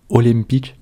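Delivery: attempted Korean pronunciation of "olympique"; "olympique" sounded out with an awkward Korean accent; bad Korean accent. Shown as a demonstration. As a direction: read "olympique" phonetically off Korean script, in a clumsy Korean accent. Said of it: "Désolé pour mon accent, il est affreux".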